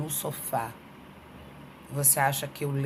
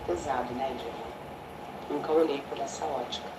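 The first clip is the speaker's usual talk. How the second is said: mock client; 4 semitones lower, 7 dB quieter than usual. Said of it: "a maioria dos meus clientes falam".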